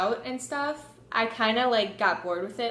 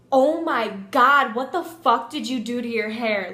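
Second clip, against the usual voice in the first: disgusted friend; 5 dB louder than usual. Retold or imitated. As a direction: mimic a horrified friend, hit the start hard. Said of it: "she was so disgusted".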